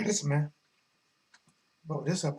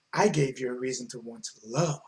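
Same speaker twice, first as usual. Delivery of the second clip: sly taunt; 7 semitones lower, 7 dB quieter than usual. Acted. Voicing Andy taunting Anthony.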